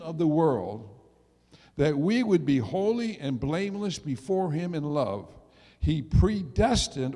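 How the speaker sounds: slow, emphatic scripture reading. Acted. Preacher reads verse four to the congregation, slow and emphatic. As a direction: proclaim the verse firmly, weighting each phrase, unhurried.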